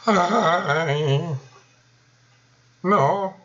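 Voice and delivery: high, loud hammed-up death wail; mock dying cry. Shown as a demonstration. Demo of the game's death sound, a dramatic wail. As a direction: cry out like a game character dying. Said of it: "va a hacer cosas así".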